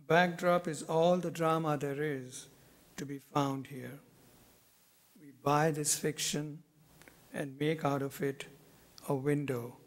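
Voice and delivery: measured poem recital, pausing after each phrase; deliberate phrases that fall away at the close; poetry reading. Acted. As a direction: read your poem to an audience, letting each image settle. Reads own poem aloud.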